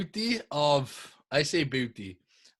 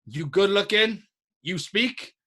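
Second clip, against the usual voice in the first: higher, halting broken-English imitation; imitated broken English; 4 semitones higher than usual. Man asking him to find women, imitated broken English. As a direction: act out a man addressing him in fragments. Retold foreign stranger recruiting him.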